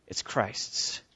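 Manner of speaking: soft whisper; hushed whisper. Acted. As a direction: breathe it quietly. Hushed punchline after build.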